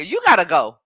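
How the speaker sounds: loud, scolding call to Bruce; calling out a commenter. Real, not acted. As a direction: tell Bruce to get out, loudly. Kicking a commenter out.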